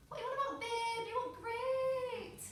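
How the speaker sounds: over-the-top supportive partner; emphatic reassurance. Acted. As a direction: insist loudly, as if the doubt is absurd. Models ideal boyfriend's reassurance.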